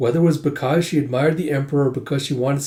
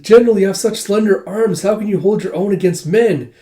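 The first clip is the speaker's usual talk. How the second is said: high, loud gushing fan voice; imitated starstruck admirer; gushing fangirls; 8 semitones higher, 6 dB louder than usual. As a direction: fawn over the idol, pitched right up. Fangirls gush over female general.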